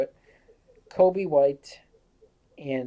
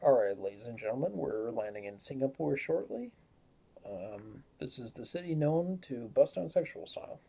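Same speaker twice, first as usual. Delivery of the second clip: pilot announcement; 5 dB quieter than usual. Acted. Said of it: "do, like, a pilot impression right now".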